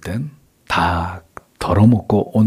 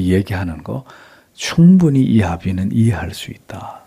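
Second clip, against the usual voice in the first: understanding. Shown as a demonstration. Father accepting his elder son's anger, understanding. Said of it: "그의 주장을 다분히 이해하고".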